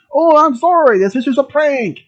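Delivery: apologetic prankster. Acted.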